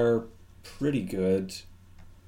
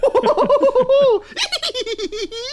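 high tittering giggle; prim titter; 10 dB louder than usual. Acted. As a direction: titter prissily behind the cards. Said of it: "exactly like that".

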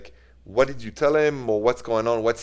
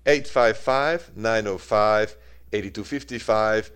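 slow number read. Real, not acted. Host repeats call-in number.

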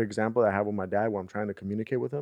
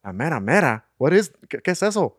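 puzzled quote; 6 semitones higher, 7 dB louder than usual. Retold or imitated. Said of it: "they're like".

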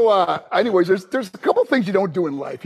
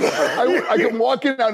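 usual speaking voice

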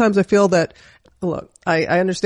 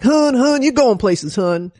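coach's praise; 5 semitones higher, slower than usual. Retold or imitated. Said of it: "she's like".

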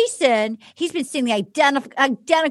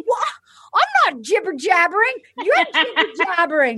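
high-pitched squabbling protest; hammed-up, offended denial; mock indignant retort; 5 semitones higher than usual. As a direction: imitate a petty comeback. Acting out a petty quarrel.

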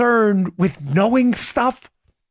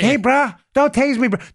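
quoting a meme; 2 semitones higher than usual. Retold or imitated. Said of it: "remember the bruh?".

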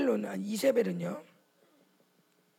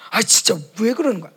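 louder, exasperated demand; irritated question; 6 dB louder, faster than usual. Retold or imitated. Preacher mimicking someone asking in anger, irritated. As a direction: fire it off in irritation. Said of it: "적그리스도가 붙어 화가 나니까".

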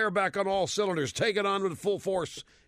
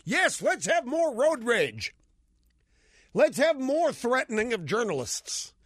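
sarcastic; 6 semitones higher than usual. Acted. Mocking the AP anger story.

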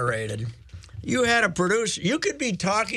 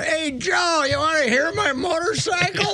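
much higher, eager caller voice; excited caller impression; 13 semitones higher than usual. Caller offers Joe a motorcycle sound, hammed-up eager voice. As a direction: imitate a caller bursting onto the line, pitched way up. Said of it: "next caller".

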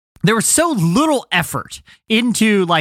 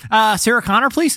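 Martin Short; 3 semitones higher than usual. Acted. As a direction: lift the voice, hesitant and unthreatening. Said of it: "if he looked like Martin Short".

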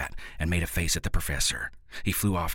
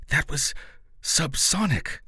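sharp, higher retort; snapped; 8 semitones higher than usual. Acted. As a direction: snap it out, pitched up. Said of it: "the professor snapped".

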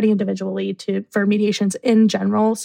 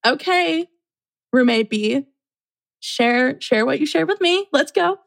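upbeat mediator; 5 semitones higher, slower than usual. Retold or imitated. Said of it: "I was like".

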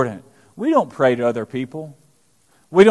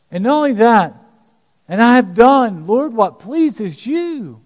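higher, earnest pleading to God; pleading prayer; 3 semitones higher than usual. Acted. Dying king praying to God, pleading. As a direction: beg God to remember your faithfulness.

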